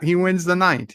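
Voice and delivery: excited call that he won; gleeful verdict. Real, not acted. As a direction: crown the winner with glee.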